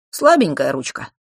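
loud, good-natured tease; amiable, lightly amused remark; friendly chuckle. A narrator's reading. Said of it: "вполне дружелюбно усмехнулся мальчишка".

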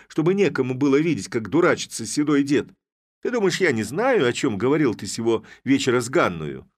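high, loud tirade, some words slowed for weight; furious scolding. Acted. Sister-in-law berating the head, a high loud scolding. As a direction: tear into him, blow after blow.

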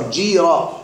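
جيرة with one smooth long ī, jī-ra; correct long vowel. Shown as a demonstration. Teacher shows students the right reading, smooth long-vowel jī-ra in جيرة. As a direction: say جيرة without sounding a sukun on the yā'. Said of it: "لا تقل جيرة".

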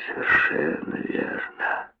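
slow, breathy whisper of "совершенно верно"; slow sly whispered repeat. A narrator's reading. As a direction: draw the repeat out in a hush. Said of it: "Он хитро качнул головой".

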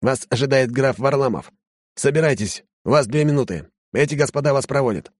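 a pompous lackey giving orders; haughty servant. Acted.

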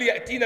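put-on "ياتينا" quickly as ya'-teena, with a glottal stop; hamza sounded, rejected form. Shown as a demonstration. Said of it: "مش هنقول".

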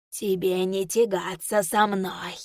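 slow, menacing monster voice; eldritch horror. Acted. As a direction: taunt her slowly from the shadows. Monster taunts.

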